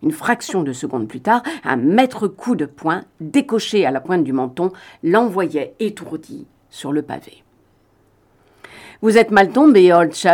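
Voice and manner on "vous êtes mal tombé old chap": icy, cold tone, louder. Reeves, having knocked his attacker to the pavement, speaks coldly. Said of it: "fut froidement Reeves".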